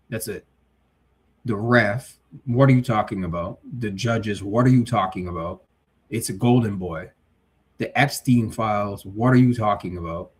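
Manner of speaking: incredulous rereading with scoffs; reading in disbelief. Real, not acted. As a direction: read it aloud like it's absurd. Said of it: "Let me read that again".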